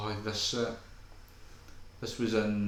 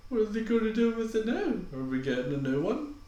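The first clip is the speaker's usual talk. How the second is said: worried fan voice; 4 semitones higher than usual. Retold or imitated. Voicing worried fans.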